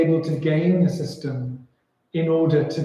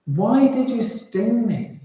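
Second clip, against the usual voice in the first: higher, slow, drawn-out question; dying reproach; 6 semitones higher than usual. Acted. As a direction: ask as a betrayed, dying storybook frog. Dying frog asks scorpion why.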